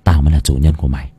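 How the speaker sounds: low, fast, contained anger; growing menace through gritted teeth, low. A narrator's reading. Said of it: "nghiến răng". (nghiến răng, gằn giọng thấp)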